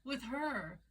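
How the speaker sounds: a hint of an indignant wife; lightly voiced accusing wife. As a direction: point the finger as the wronged wife. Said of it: "And the wife goes".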